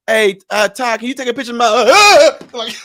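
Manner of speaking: mild mock girly voice; mock sweet request. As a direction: put on a sugary little voice to ask a favor. Mock girl asking for photo.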